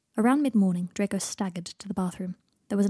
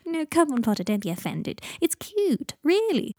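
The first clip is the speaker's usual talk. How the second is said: teasing laugh; 8 semitones higher, slower than usual. Acted.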